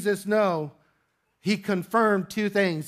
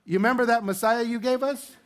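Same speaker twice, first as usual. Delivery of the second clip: mock sheepish prayer, higher and laughing; a laughing, hammed-up confession to God; panicked parents' prayer; 3 semitones higher than usual. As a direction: play the embarrassed parent owning up to God. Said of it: "Can you imagine that prayer?".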